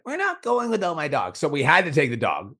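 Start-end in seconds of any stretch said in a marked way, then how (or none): 0.0-1.4 mock hissy fit. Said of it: "threw a fucking hissy fit".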